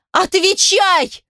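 slow, high scream of one word; screaming through sobs. A narrator's reading. Heroine screams at Pasha through sobs. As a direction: scream it with all your strength while sobbing. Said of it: "Заорала, что есть силы, сквозь рыдание".

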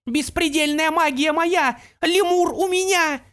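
high, loud, slow ecstatic pixie voice; exultant pixie. Acted. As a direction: savour each word like treasure. Opal claims her prize.

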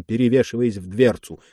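ordinary delivery

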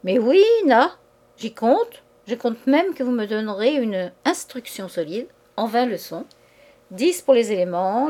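lightly voiced schoolboy mumbling his lesson; a hint of a pupil stumbling through a recitation; mock-childish recital ending in a pouty na; schoolboy reciting. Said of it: "avec une voix de collégien qui bredouille sa leçon".

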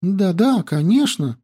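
high, quick agreeing; eager girl voice. Acted. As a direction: nod along eagerly. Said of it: "закивала девушка".

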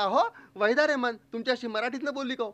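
mock a nit-picking neighbour's sly question; snide question. Neighbour interrupts the storyteller to doubt him, snidely. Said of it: "तो खवचट प्रश्न ऐकल्याबरोबर".

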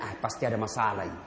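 low, gentle, unhurried voice of the Prophet; calm Prophet. Acted. The Prophet gently answers the man who spat, low and calm. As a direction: smile through the words, easy and forgiving. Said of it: "Nabi bertanya-tanya".

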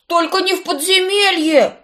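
put-on loud high childish whine; whining like a child. A narrator's reading. Tommy whining like a little kid, high and loud. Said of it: "законючил не лучше малого ребёнка".

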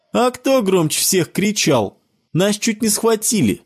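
put-on high child voice, accusing; a boy blaming his friend, high. A narrator's reading. Bruce accuses Sebastian, high accusing child voice. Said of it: "продолжал обвинять его Брюс".

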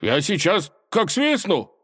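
high, slow blustering threat; threatening. A narrator's reading. Little robber warning the tsar, threatening. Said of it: "Он пригрозил".

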